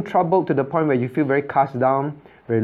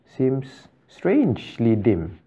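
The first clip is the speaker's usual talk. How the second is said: slow wondering; much slower than usual. Retold or imitated. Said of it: "then they say".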